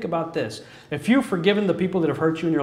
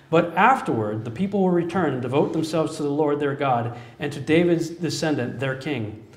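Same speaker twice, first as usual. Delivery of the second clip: scripture reading. Acted. The preacher reads Hosea to the congregation, measured and solemn. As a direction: read the passage with weight.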